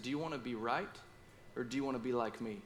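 soft, quiet, gentle yet firm; a loving father setting his son straight softly; gentle but straight. Retold or imitated. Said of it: "he said so gently but straight".

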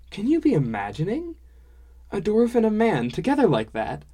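high, loud, incredulous dwarf-woman voice; tickled dwarf woman, loud and high; amused dwarf woman. Acted. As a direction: exclaim in merry disbelief, pitch swooping up.

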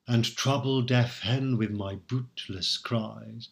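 slow, measured verse reading; poem recital. Shown as a demonstration. Lecturer quoting the sonnet aloud, slow recital. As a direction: savour each word of the verse.

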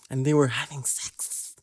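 slow mock quote of a grown man; imitated slow drawn-out remark. Friend imitating the mechanic heard out of nowhere, drawn out slowly. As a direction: stretch the words out slowly, as if overheard. Repeating the overheard mechanic's line.

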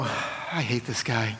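low, slow, soft grumble of dislike; muttered inner thought. Retold or imitated. Pastor recalling his first thought about the guy, low slow grumble. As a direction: mutter it low and slow under your breath.

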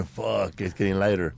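low, soft worried mutter to himself; muttered worry. Retold or imitated. Watching his buddy's coke bag empty, he mutters softly to himself. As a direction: mutter it under your breath as the bag runs low.

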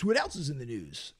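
mock radio announcer, laid-back; lightly hammed-up radio delivery. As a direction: toss it out like an FM host. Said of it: "that's my F M radio voice".

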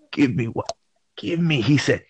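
hiccuping, stuck on words. Retold or imitated. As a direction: stammer through hiccups. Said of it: "he had the hiccup".

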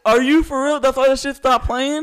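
loud, high-pitched incredulous question; shocked disbelief. Real, not acted. Fan learning the show got canceled, shocked. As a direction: blurt it out, stunned.

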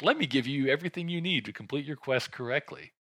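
hint of a helpful game character handing out a quest; video game quest-giver. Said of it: "video game level piece of information bearing character".

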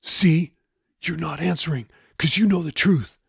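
mildly angry, pressing the point. A narrator's reading. Jeffy accuses Raoul of dodging the truth, mildly angry. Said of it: "Jeffy said angrily".

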